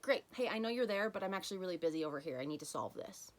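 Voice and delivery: quick, busy dismissal of the feeling; brushing it off. Retold or imitated. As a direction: hurry the emotion aside. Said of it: "It's like".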